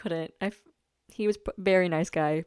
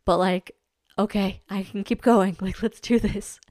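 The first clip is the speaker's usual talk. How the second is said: fired-up inner voice; 2 semitones higher, 7 dB louder than usual. Retold or imitated. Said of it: "I was able to be like".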